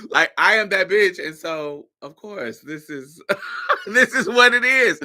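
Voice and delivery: smug diva. Retold or imitated. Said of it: "the deadpan of it".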